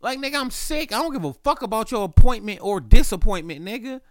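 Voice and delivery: high-pitched mock rant; imagined retort. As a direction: crank it way up and indignant. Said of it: "And in my mind".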